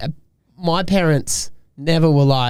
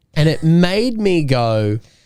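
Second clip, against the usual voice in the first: plain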